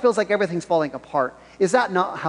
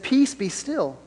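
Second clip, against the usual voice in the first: calm command, falling softer; composed, soft-ending reassurance; 2 semitones higher, 3 dB quieter, slower than usual. Acted. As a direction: settle the storm quietly. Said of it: "Look at the calmness".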